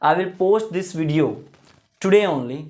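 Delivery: very slow English sentence; slow model sentence. Shown as a demonstration. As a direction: read it out slowly for learners. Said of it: "तो".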